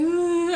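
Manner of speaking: high, drawn-out whiny groan; mock crying groan. Retelling tearful call to mom, mock whiny groan. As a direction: moan it in mild fake misery. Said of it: "I called my mom crying".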